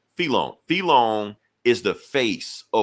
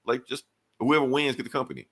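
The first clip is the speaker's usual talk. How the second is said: higher, called out from the crowd; mock heckler yelling a suggestion; yelled out from the crowd; 6 semitones higher than usual. Bystander calls out to Tony and Felon, a mild mock yell. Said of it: "somebody just yells out".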